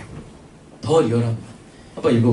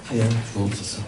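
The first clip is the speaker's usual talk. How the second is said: low, measured Bible reading; scripture reading; 6 semitones lower, 4 dB quieter than usual. Acted.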